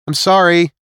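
called back loudly while running off; calling out. Acted. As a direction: shout it over your shoulder, running away. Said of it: "she called back over her shoulder".

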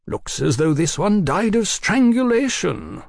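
wry remark. Acted. Oliphant remarks on stuffed head.

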